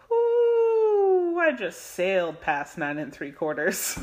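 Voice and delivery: high on weed, giddy and loud; buzzing from the weed; stoned. Real, not acted. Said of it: "When that weed hits your brain".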